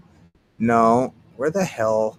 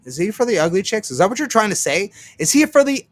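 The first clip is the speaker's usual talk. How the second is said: incredulous; 7 semitones higher, 5 dB louder than usual. Real, not acted. Mocking incredulous question.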